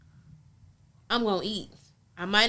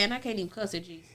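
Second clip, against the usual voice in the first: whisper; 7 dB quieter, faster than usual. Real, not acted. Confessional aside.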